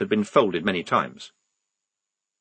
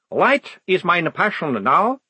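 a timid vampire soothing nervous soldiers; shy vampire; 7 semitones higher, slower than usual. Acted. The vampire iconographer Otto speaks.

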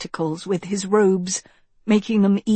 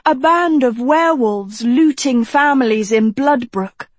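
put-on higher, louder young woman's voice; eager, concerned girl; 6 semitones higher, 7 dB louder than usual. Girl listing news of attacks, urgent character voice. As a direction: reel off the troubles in a raised pitch.

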